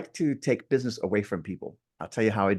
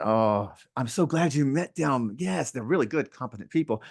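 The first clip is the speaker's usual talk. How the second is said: feigned enthusiasm. Acted. Agent praising rivals to a client before undercutting them, feigned enthusiasm. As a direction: flatter the rivals before slipping in the dig.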